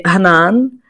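Hanan with a long, drawn-out second a; English pronunciation. Shown as a demonstration. Host demonstrating English speakers' version of her name, stretched "Hanan". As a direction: say "Hanan" as ha-NAAN, English style. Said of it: "native English speakers say".

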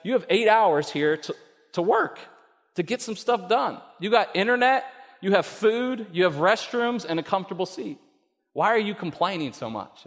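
a light take on God's firm voice; God speaking. Retold or imitated. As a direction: lift the voice and set him straight. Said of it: "and it said".

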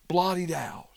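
whispered echo of "blotted out", breathy and unvoiced. Shown as a demonstration. Bible teacher echoing David's plea to the listeners, whispered. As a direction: let "blotted out" drop to a hushed whisper, for weight.

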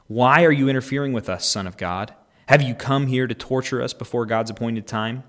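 loud, high, screaming demon voices; mock scream of the possessed men. Possessed men scream at Jesus, hammed-up loud. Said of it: "They began screaming at him".

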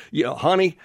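lightly put-on Southern drawl; a hint of folksy Southern husband talking to his honey. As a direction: play Adam with a mild Southern twang. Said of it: "you can almost add a southern drawl".

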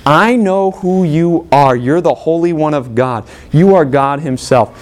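slow, menacing demon voice; the demon drawing out each word to frighten the people; slow sinister demon. Acted. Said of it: "this demon stands up and says".

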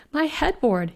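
high, anguished cry of protest; wailing. A narrator's reading. Inn owner mourns his shattered headboard, wailing. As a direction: wail it in dismay, pitched well up. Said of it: "he wailed".

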